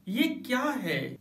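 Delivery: slow, stressed "ये क्या है?"; emphatic question. Shown as a demonstration. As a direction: lean hard on "ये" in "ये क्या है?". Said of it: "इस सेंटेंस को हम बहुत जोर देकर बोलते हैं". ("ये क्या है?" ज़ोर देकर, धीरे)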